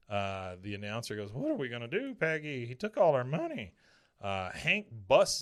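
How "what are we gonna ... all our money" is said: mildly panicked, higher voice; a touch of helpless alarm. Retold or imitated. Announcer asking Peggy for help, panicked.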